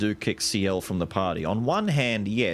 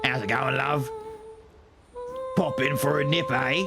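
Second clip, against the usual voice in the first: put-on British accent; 5 semitones higher than usual. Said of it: "that accent".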